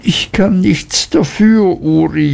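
high Mrs Heep wailing; wailing mother. Acted. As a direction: wail helplessly at her son. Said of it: "jammerte die Mutter".

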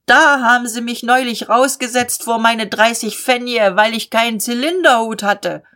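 mildly shouted working-man's complaint; worker shouting. Acted. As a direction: call out the grievance over a crowd. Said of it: "der schreit".

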